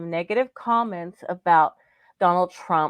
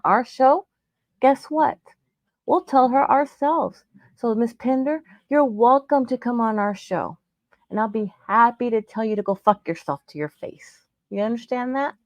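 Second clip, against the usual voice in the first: defiant anger; 4 semitones higher than usual. Real, not acted. Host challenging the doctor to face them, angry and defiant. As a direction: dare her to come on the show.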